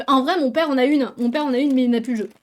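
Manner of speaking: snacking while talking. Real, not acted. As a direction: talk between bites of snack. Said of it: "je grignote un peu parce que j'ai faim".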